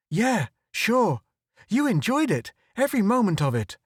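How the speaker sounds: high, quick mocking jab; sarcastic. Photographer mocking Irish's glee, high sarcastic. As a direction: rush the sarcasm.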